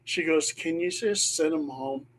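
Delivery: soft, hushed plea; quiet pleading. Retold or imitated. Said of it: "she looks at me and she goes".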